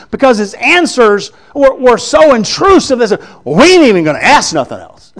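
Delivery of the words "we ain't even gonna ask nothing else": mock defeated grumble. Pharisees giving up, comic retelling.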